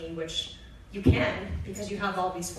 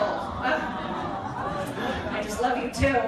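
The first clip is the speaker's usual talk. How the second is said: tender; 2 semitones higher, much slower than usual. Retold or imitated. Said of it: "mother answering son".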